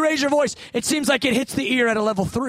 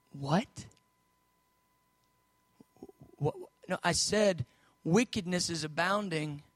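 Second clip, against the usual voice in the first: bewildered protest; 6 semitones lower, 7 dB quieter than usual. Acted. Habakkuk baffled by God's answer.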